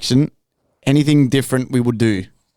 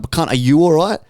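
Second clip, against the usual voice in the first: higher and louder, throwing the question back; loud mock retort; 5 semitones higher, 4 dB louder than usual. Narrator mockingly firing back at the drunk guy. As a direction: snap his question straight back at him. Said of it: "I'm like".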